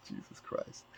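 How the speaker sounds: whispered Jesus Christ under the breath; breathless whisper. Real, not acted. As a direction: breathe it out, stunned. Stunned aside after laughing.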